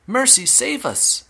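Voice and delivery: drawn-out high wail; high yell. A narrator's reading. Mother crying out for help, high panicked yell. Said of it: "yelled Missus Beauregard".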